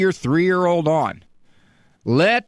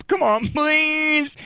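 breaking down; 8 semitones higher, much slower than usual. Acted. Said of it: "This is where I break down".

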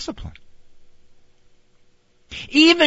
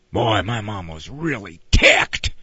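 low put-on kid voice; hammed-up kid gossip, pitched down; impressed kid; 9 semitones lower than usual. Kid reporting that mom was really ticked, exaggerated.

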